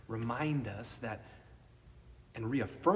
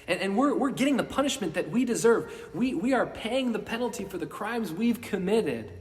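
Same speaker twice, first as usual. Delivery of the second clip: loud, high scolding cry; indignant rebuke; 6 semitones higher, 6 dB louder than usual. Acted. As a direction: rebuke the other man hard. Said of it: "rebukes him".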